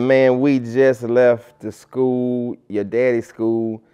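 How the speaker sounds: loud, slow retold scolding; Coach Hart. Disciplinary coach scolds the arriving student, exasperated.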